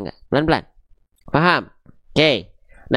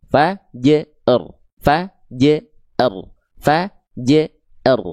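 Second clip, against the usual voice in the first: "Fajr" broken into fa, je, r; dipenggal-penggal; 3 semitones lower, much slower than usual. Shown as a demonstration. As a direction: split each "Fajr" with short gaps, thin j. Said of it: "kita penggal-penggal dulu bacanya". ("Fajr" dipenggal fa, je, r)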